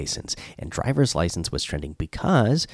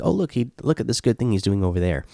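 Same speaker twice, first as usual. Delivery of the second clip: quicker, higher imitation of pleased onlookers; mock delighted public; 4 semitones higher, faster than usual. Host imitating voters pleased by Biden's surface gestures, mock delighted. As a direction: play an easily pleased crowd, a touch hurried. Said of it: "will make people happy, be like".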